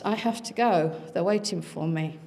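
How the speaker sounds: flat, lifeless monotone. Retold or imitated. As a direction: say it like an entranced child, monotone. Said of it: "in a very sort of monotone voice".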